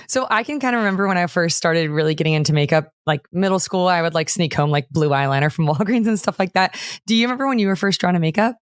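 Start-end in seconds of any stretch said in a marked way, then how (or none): none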